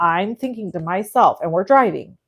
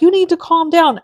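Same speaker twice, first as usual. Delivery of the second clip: much higher mock voice of the wife; 10 semitones higher, 5 dB louder than usual. Imitating the wife telling the panicking narrator to calm down, much higher mock voice. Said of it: "And she's like".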